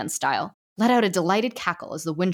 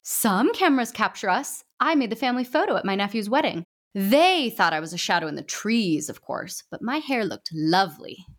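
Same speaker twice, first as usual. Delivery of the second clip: put-on shrill old ghost; 3 semitones higher than usual. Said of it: "shrill voice rose above the crowd".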